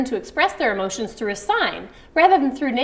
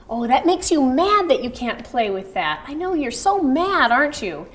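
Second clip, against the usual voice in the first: put-on soothing toddler; 4 semitones higher than usual. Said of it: "sign and say to him".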